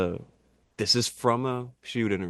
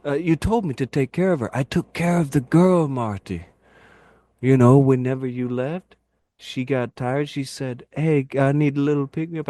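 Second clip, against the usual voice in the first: Iron Sheik voice; 4 semitones higher than usual. Retold or imitated.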